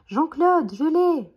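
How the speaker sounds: high, loud shout of triumph; triumphant exclamation. A narrator's reading. Billy has lassoed the bison, triumphant shout. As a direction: crow over a catch. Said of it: "s'exclame Billy".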